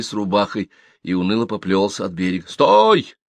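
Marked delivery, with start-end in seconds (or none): 2.5-3.1 high, loud sharp shout. A narrator's reading. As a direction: stop him with one yell. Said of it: "закричал около". (громкий окрик)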